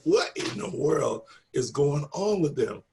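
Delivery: slow, drawn-out bewilderment; baffled onlookers. Retold or imitated. Coworkers overhearing two women cry and wondering, slow and baffled. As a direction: imitate puzzled coworkers, stretching the words.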